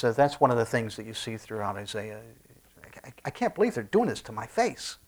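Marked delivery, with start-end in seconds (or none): 2.8-5.0 acted disbelief. Voicing God astonished at lying.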